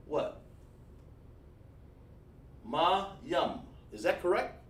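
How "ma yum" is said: MA and YUM as two separate sounds; separated syllables. Shown as a demonstration. Teacher asks students if it is correct, syllables separated. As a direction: pause between MA and YUM. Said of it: "gotta have some break in your tone".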